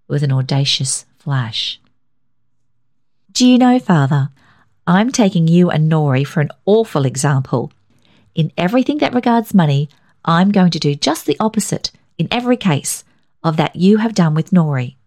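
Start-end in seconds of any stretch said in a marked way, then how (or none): 3.3-14.9 a hint of a spirited young woman; a daughter teasing her father; mildly raised woman's voice; lightly voiced daughter Isabel.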